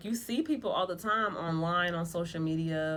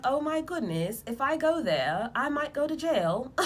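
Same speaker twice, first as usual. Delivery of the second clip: higher, louder mock panic; mock panicked self; 6 semitones higher, 3 dB louder than usual. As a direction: play the scared you who fears jail. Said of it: "You're like".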